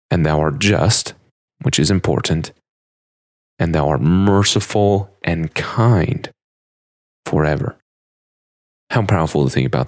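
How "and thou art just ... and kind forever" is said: "and thou art merciful and kind" drawn out slowly, each word weighed; slow emphatic reread. Acted.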